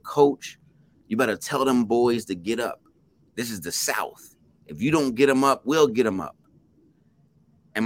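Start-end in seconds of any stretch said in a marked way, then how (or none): 0.0-6.4 retold heckler yell. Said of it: "he yelled over my shoulder".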